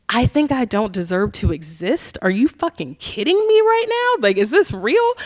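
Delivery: shocked disbelief. Retold or imitated. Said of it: "And I was like".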